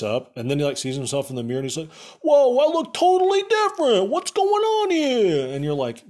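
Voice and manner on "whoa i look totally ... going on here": high, loud hammed-up alarm; comic yell, last words dragged out; mock shocked yelling. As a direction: imitate a freaked-out man at the mirror. Hero sees himself in mirror.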